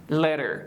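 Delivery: LATER with T tapped like a quick D; flap T. Shown as a demonstration. Teacher models the American word, LATER with flapped T. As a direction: say LATER American-style with a fast tap. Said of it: "باید به گونه دی تلفظ کنیم".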